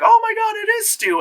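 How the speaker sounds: high gasping oh my God; mock fan excitement. Fans discover Stu is back, mocking their high squeal.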